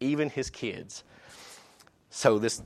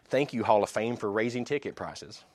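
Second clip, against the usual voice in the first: sarcastic thanks. Retold or imitated. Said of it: "his sarcastic rip".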